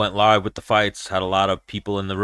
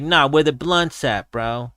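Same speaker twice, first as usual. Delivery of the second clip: higher-pitched imitation of a Diaz accent; Diaz brother; 4 semitones higher, slower than usual. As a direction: put on a Diaz-style fighter accent. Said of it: "talking like a Diaz brother".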